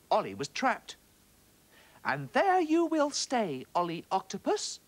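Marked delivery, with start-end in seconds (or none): 2.0-4.8 triumphant little fish. A narrator's reading. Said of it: "said the little fish".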